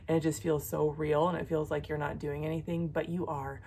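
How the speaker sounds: soft, low, earnest praying voice; hushed, sincere intercession; prayer. Real, not acted. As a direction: pray gently over the listener. Prays for her viewers.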